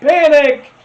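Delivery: high, loud shouted name; excited shout. Real, not acted. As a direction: yell the name out in delight. Excited name call, meme reaction.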